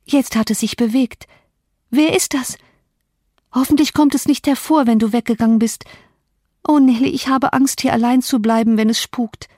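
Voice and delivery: a feverish woman, scared of being left alone; frightened Catherine. Acted. Catherine begs Nelly not to leave her, frightened.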